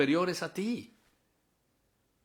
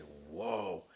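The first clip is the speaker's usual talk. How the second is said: awed Eve; 8 semitones lower, 10 dB quieter than usual. Acted. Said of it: "Y entonces ella dice".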